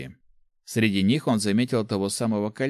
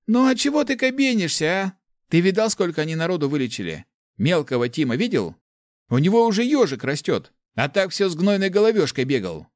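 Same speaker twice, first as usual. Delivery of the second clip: much higher, louder, fast exasperation; exasperated scolding; 9 semitones higher, 5 dB louder than usual. Acted. Nick scolding Chak, high and exasperated. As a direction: scold him in disbelief.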